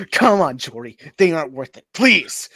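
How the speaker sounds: loud, high pleading voice; pleading girlfriend. Acted. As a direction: beg him to stop.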